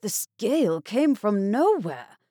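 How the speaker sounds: loud, high alarmed cry; frightened shout. A narrator's reading. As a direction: yell it over the storm. Storm strikes suddenly.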